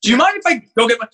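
nervous stammer; stuttering. Retold or imitated. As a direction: stumble over the words. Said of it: "I was, like, stuttering".

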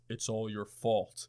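deep, slow, creepy voice blaming him; deep ominous voice. Retold or imitated. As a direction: intone it like a ghost in the dark. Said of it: "I hear this deep-ass voice go".

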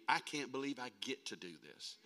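softened, heartfelt confession; sincere. Real, not acted. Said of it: "I'm totally sincere when I tell you".

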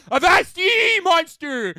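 high, loud mock pirate yell at a monster; pirate battle cry. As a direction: bellow it like a pirate facing a beast. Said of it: "trying to scream".

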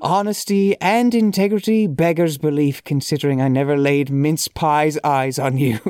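reading aloud in a lightly put-on Irish accent; a hint of hammy, amateur Irish brogue; awful Irish accent. Shown as a demonstration. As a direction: try a little bad Irish accent. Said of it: "awful accent".

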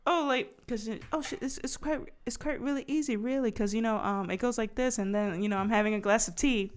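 put-on a playful take on a British accent; imitating a British accent. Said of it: "she was just like".

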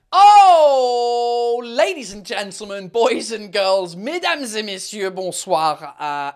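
host opening his live show in grand style; showman intro. Acted. Opening his live show to viewers, announcer voice.

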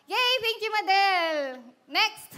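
lively, drawn-out cheer of thanks. Real, not acted. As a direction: call it out to the whole room. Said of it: "parang lakas ang boses ko dito". (masiglang pasigaw)

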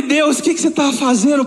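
tearful, astonished question to God; choked up. Retold or imitated. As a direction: let the voice break as you ask God. Retells being overwhelmed by God.

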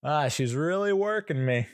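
high, put-on customer voice, drawing out "really"; imitated haggling woman. Woman haggling over photos grumbles about the upsell, in a high mimicking voice. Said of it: "so the woman's like".

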